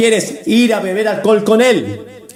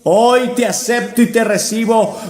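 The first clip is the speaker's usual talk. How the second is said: leading a prayer. Shown as a demonstration. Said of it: "repitas conmigo esta sencilla oración".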